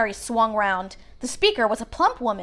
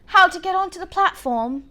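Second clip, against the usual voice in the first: kindly; 7 semitones higher than usual. A narrator's reading. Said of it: "she said kindly".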